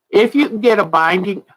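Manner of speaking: yawning. Real, not acted. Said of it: "I just yawned".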